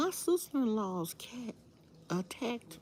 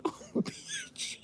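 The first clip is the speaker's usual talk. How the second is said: squeaky mock cursing husband; mimicking husband; 7 dB quieter than usual. Imitating the angry husband cursing the cat. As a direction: ham up his pained curse. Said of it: "He didn't call the cat a bitch. He was like".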